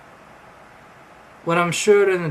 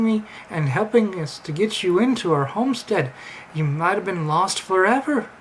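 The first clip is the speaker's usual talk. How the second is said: higher, sing-song mock Amish voice; terrible Amish accent; 5 semitones higher than usual. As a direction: lilt it like a badly faked Amish farmer. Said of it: "my terrible Amish accent".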